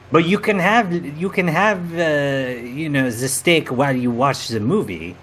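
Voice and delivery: mock-dramatic reveal in a hammed-up French accent; a sly French-accented confession; host reveals he is from another universe, in mock French; fake French accent. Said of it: "outrageous French accent".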